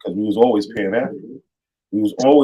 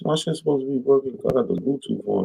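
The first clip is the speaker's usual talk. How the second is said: distant, faint voice away from the mic; talking from across the room; far from mic; 3 semitones higher, 5 dB quieter than usual. Real, not acted. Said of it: "the next minute sound like you done ran to the back".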